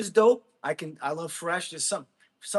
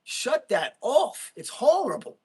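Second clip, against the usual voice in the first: higher, louder and very slow, fed up with the noise; retold disgusted shout; 7 semitones higher, 5 dB louder, slower than usual. Telling viewers how he reacts to new music, loud slow disgust. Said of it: "I'm like".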